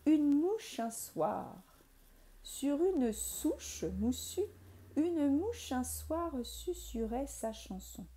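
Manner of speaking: slow teacher's rhyme reading; nursery rhyme recital. Shown as a demonstration. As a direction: recite the rhyme for little ones, slowly. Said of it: "je peux vous la dire comme ça".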